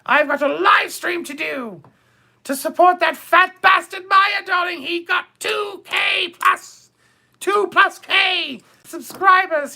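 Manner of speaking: hammed-up shout of a flustered diva shooing Pierre; calling Pierre off with theatrical bursts; retold call to Pierre. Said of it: "and I said".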